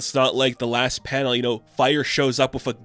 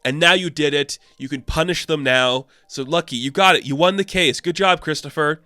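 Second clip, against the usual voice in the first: bitter taunt; 4 semitones higher, 4 dB louder than usual. Retold or imitated. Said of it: "she's like".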